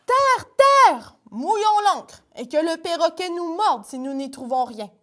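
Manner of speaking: high excited shout, then pirate vow; calling land ahoy. Acted. A sailor spots land after the storm, excited call. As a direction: cry out at the sight of land.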